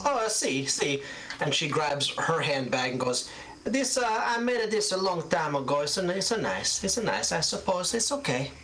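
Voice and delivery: put-on high, proud old seamstress with an Italian lilt. GM plays old seamstress Gilda.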